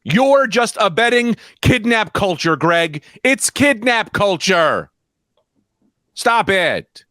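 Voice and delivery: high-pitched, emphatic scolding; mock outrage. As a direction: preach indignantly at a guilty friend. Mock outraged moral lecture at Greg.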